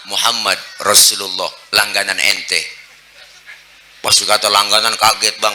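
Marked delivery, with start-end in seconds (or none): 0.1-2.6 gentle answer. Acted. Prophet gently names himself to the sick man. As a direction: say it calmly and kindly.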